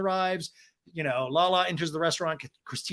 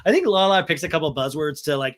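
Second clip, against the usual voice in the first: normal talking voice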